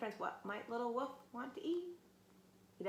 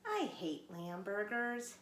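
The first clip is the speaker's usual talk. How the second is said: whining; slower than usual. Acted. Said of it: "he whined".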